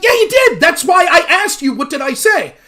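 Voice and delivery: high mocking voice insisting; mock insistence. Rob voicing his own insistence in a high mocking squeak. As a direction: squeak it back at him like a mocking kid. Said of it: "And you're like".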